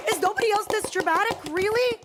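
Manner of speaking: a hint of mock despair; mock dramatic. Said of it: "I'm here like".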